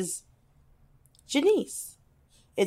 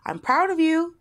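quoting praise; 8 semitones higher than usual. Retold or imitated. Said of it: "she was like".

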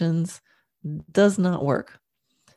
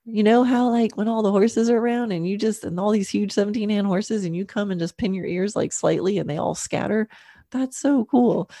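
higher, admiring chat to her horse; fond praise to horse; 4 semitones higher than usual. Retold or imitated. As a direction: tell him how cool he is. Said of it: "I was like".

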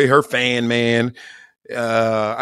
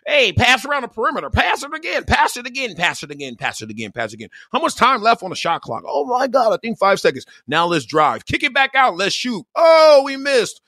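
higher, sing-song mock of a passing team; mock college player; 9 semitones higher than usual. Mocking boring college basketball to viewers, hammed-up sing-song. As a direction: parody a dull college offense, pitched up.

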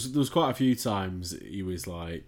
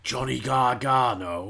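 drawn-out, loud, fake British accent; higher, exaggerated American take on British; mock-British accent; 4 semitones higher, 6 dB louder, slower than usual. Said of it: "an American does an impression of an English person".

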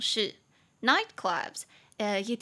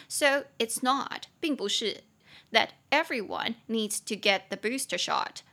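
phrase by phrase. Shown as a demonstration. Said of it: "At those venues".

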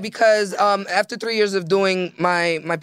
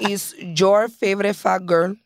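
put-on slow, playful Cuban accent; slower than usual. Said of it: "Say it in your Cuban voice".

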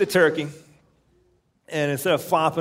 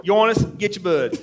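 put-on Maine accent; 6 semitones higher than usual. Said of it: "without doing his voice".

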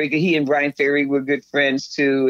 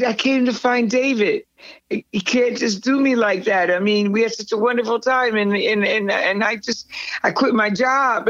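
higher-pitched, insistent retold plea; 5 semitones higher than usual. Explaining herself to David's bodyguard, pleading. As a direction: re-enact pleading your case.

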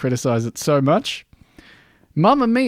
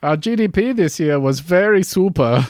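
put-on European accent; 3 semitones higher than usual. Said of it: "speaking like Europeans do".

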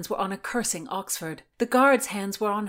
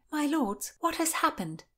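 much higher lady's voice; Constance; 9 semitones higher than usual. A narrator's reading. Constance questions the lords, high-pitched. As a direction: ask it high, as the captive lady.

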